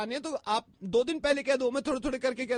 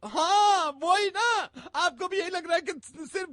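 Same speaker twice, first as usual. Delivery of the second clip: louder, higher defiant retort; defiant shout; 3 semitones higher, 4 dB louder than usual. Acted. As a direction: shout back in defence. Sisters' shouting quarrel. (चिढ़कर ज़ोर से जवाब)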